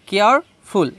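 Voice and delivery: "কেয়ারফুল" split as কেয়ার, then ফুল; syllable by syllable. Shown as a demonstration. Teacher showing two syllables to students, breaking "কেয়ারফুল" into কেয়ার and ফুল. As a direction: pause inside "কেয়ারফুল" between its two parts. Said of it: "এখানে কয়টা syllable আছে".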